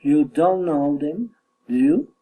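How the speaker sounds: tag "do you" swings up sharply; statement, then a climbing "do you"; rising tag question. Shown as a demonstration. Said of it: "Falling or rising intonation".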